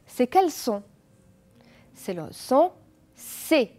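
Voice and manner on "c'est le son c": teacher models the S sound clearly; French teacher demo; model pronunciation. Shown as a demonstration. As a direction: say the sound for students to repeat. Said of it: "Répétez après moi".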